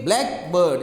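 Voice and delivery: blackbird with "black" stressed, drawn out slightly. Shown as a demonstration. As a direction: hit the first syllable of blackbird. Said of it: "you stress on the black".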